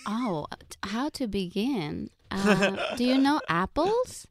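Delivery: lightly voiced Russian mom; a hint of a mother figure; mom impression. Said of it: "talk as our moms".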